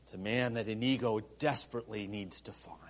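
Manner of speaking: quick urgent whisper. A narrator's reading. Preacher telling the Princess Bride scene, urgent whisper. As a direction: breathe it fast like a secret. Whispered aside in Inigo story.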